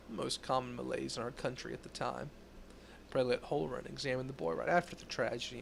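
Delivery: put-on old gumshoe voice; hard-boiled detective narration; noir detective. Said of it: "It's like the old gumshoe voice".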